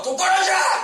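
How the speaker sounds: a stern teacher's yell; teacher shout. Retold or imitated. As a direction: bark it like a furious teacher banging the desk. Teacher banging lectern.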